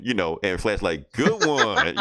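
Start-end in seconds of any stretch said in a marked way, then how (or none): 1.1-2.0 loud, put-on rough superhero voice; exaggerated gruff impersonation, raised and louder; Batman. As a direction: punch it out in a mock rough hero voice. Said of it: "That's a good Batman right there".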